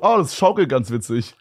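easy, slightly slow and unbothered; calm voice. Retold or imitated. Max on the swinging ride, mildly imitated, calm and slow. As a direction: say it as if nothing is happening. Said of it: "die ganze Zeit so richtig ruhig gesagt".

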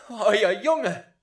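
loud, high upset cry; upset outcry. Acted. Wife crying out to the boy's father. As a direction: cry out in alarm.

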